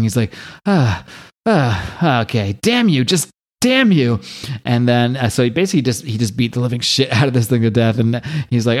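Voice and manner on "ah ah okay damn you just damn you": mock panting between curses; out of breath. Imitating Kevin spent from beating the ogre, mock breathlessness. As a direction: imitate winded breaths, then a drawn-out last curse. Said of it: "he's just breathing and breathing".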